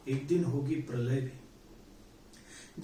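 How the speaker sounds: dragged-out solemn refrain; slow refrain. Acted. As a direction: let the refrain sink, very slowly. Refrain of recited poem.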